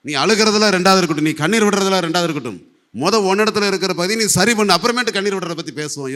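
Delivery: firm admonition. Acted. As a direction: firmly tell them to fix things first. Voicing God's firm reply to weepers. (கண்டிப்பான, உரத்த அறிவுரை)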